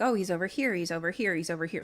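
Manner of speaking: quietly track him below; hushed pointing. Acted. Group tracking the leprechaun under the floor, hushed. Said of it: "They're like".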